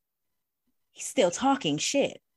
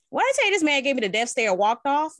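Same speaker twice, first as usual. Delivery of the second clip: amused telling; 6 semitones higher, 4 dB louder, faster than usual. Real, not acted. Breaking up while telling the story.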